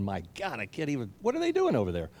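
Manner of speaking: put-on a parent baffled by their wayward kids; exasperated parent. Parent exasperated watching grown children.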